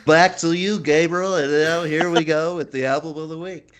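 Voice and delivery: put-on TV news anchor handoff; hammed-up news presenter delivery; newscaster voice. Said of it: "That was my newscaster voice".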